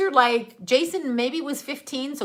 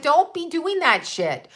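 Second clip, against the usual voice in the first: higher, slow, firm "Don't be doing that shit"; stern scold; 6 semitones higher, slower than usual. Retold or imitated. Mother to teenage son caught drinking, stern slow scold. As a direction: lay down the law to your teen son. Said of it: "I'm like".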